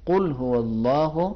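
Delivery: قل هو اللہ drawn out slowly with a thick ق; slow correct reading; slow heavy recitation. Shown as a demonstration. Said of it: "تھوڑا سا موٹا کاف سے".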